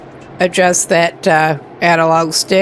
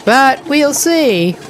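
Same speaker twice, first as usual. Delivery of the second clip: slurping drink; 4 semitones higher, slower than usual. Real, not acted. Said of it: "sorry about slurping noises".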